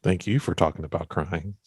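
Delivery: "you" stressed to hand the thanks back. Real, not acted. Host returns the guest's thanks for talking about crying, stress on "you".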